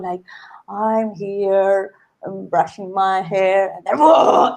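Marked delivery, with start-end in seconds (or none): 0.7-3.7 calm character. Acted. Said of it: "and then she's called". 4.0-4.5 sudden mad outburst. Acted. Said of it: "crazy and mad".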